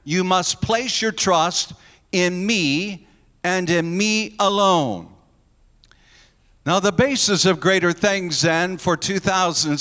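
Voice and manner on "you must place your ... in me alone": slow, weighty stress on "me" both times; emphatic ME. Shown as a demonstration. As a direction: set "me" apart slowly and firmly, right through "alone". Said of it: "It is emphatic".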